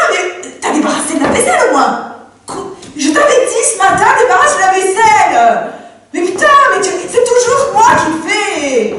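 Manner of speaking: rising annoyance with disbelieving laughs; wife scolding her husband, exasperated. Acted. Wife finds nothing done at home.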